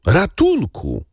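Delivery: przeraźliwy krzyk; piercing scream for help. A narrator's reading. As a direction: shriek it as panic takes over. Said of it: "wołając".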